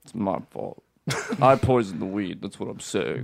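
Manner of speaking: low, quiet mopey confession; mopey emo. Acted. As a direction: drag it out like an emo kid. Lower, quieter mock-emo confession.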